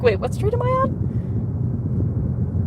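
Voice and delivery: high, very slow bewildered question; mock confusion. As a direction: stretch it out, high and lost. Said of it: "I'm like".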